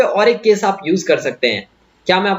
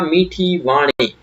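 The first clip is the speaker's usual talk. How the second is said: sweet, slow; 3 semitones lower, much slower than usual. Shown as a demonstration. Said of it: "मैं बोल सकता हूँ इसे क्या".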